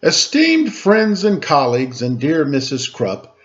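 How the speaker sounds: grand, formal announcement; a schoolboy giving his big speech; formal oration. Acted. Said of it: "began my oration".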